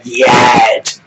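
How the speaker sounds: loud mock belting of a word; loud, mocking one-word hook; mock singer. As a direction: belt it out like a bad singer. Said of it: "he's just gonna sing the word".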